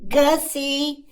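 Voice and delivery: a hint of a fussy aunt asking a favour; imitating aunt. Aunt on the phone asking him to babysit, lightly voiced. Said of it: "calls me up and says".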